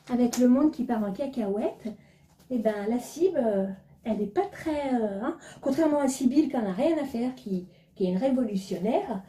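lightly voiced snobbish lady, airy and self-satisfied; posh woman back from Dubai. Vlogger mocking a pretentious acquaintance, lightly voiced snob. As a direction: play a vain rich woman just back from Dubai, only a shade off her own voice. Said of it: "le petit théâtre de Sibylle".

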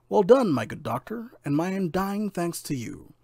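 high, loud congratulation; pleased lord. A narrator's reading. Lord rewards Fish with gold, delighted praise. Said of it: "The lord was pleased, so pleased".

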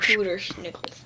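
hushed whisper. Real, not acted. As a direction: breathe it out unvoiced. Echoing the phrase in a whisper.

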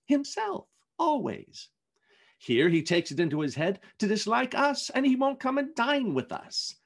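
amused but fair about his uncle; lightly voiced jovial nephew. Fred defending Scrooge to his wife, lightly jovial. Narrator voicing Fred at length.

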